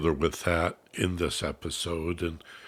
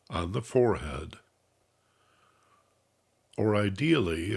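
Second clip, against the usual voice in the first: measured, unhurried instructions, easing off at phrase ends; guided meditation. Real, not acted. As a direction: calmly guide listeners into relaxation, letting phrases settle.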